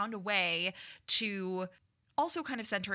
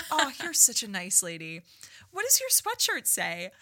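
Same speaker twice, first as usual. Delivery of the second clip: put-on a light sweet-old-man voice, stretched out; 4 semitones higher, 4 dB louder than usual. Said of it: "he's like".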